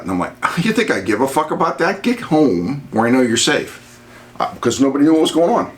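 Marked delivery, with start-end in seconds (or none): 0.6-4.0 higher-pitched mock outburst, not shouted; retold exasperated retort. Husband urging wife to leave work, retold exasperation. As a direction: act out impatient insistence without yelling.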